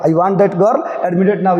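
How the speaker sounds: words stretched out very slow, one by one; a teacher slowly reading an urgent order; slow, deliberate demand. Shown as a demonstration. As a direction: spell out the doctor's demand slowly for the class. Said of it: "इस तरह चिल्ला कर".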